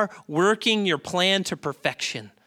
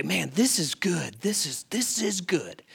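optimist friend; slower than usual. Retold or imitated. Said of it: "his friend would say".

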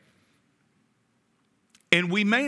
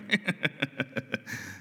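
low, breathy fake chuckle; sly chuckle; 5 semitones lower, 7 dB quieter than usual. Cain luring his brother to the field, sly chuckle. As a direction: chuckle slyly under the breath.

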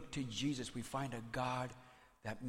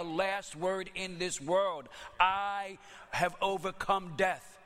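higher-pitched, forceful proclamation; emphatic Jesus declaration; 5 semitones higher than usual. Acted. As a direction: declare it as a solemn promise, higher. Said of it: "Jesus is saying".

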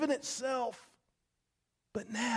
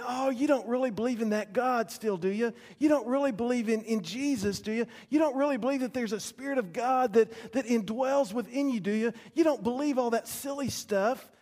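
mocking ridicule; 2 semitones higher than usual. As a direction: sneer like a mocking crowd. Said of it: "They're saying".

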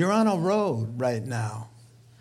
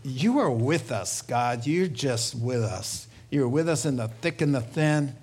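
closing prayer. Acted. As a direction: pray it over the congregation, unhurried.

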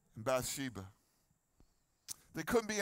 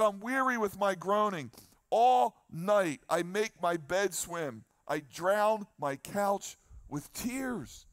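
drawn-out psalm reading, slow; slow scripture reading; slower than usual. Acted. Preacher reading a psalm to the congregation, slow and deliberate. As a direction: read the psalm to the congregation slowly.

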